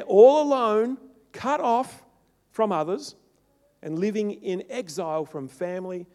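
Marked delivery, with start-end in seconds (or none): 0.0-3.1 preaching loud. Real, not acted. Preaching climax.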